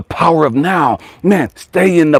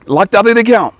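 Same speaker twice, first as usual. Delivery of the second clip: laughing disbelief; 7 semitones higher than usual. Real, not acted. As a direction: laugh through the words in disbelief. Repeats it laughing.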